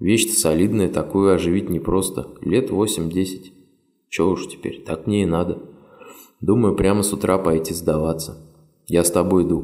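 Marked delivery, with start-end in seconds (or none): none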